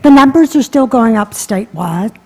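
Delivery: muffled behind a mask; talking through a mask; through a face mask. Real, not acted. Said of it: "I'll talk through the mask".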